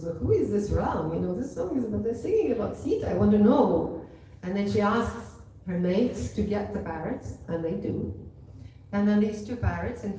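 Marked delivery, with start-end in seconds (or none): 0.0-4.0 lively curiosity, ending on a loud, insistent push; curious little princess. Retold or imitated. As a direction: wonder aloud like an inquisitive child. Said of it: "got very, very curious".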